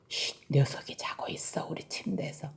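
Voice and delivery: soft, breath-only whisper; hushed whisper. Acted. Parent says the bear is sleeping in their bed, hushed whisper. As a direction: whisper so as not to wake a sleeper.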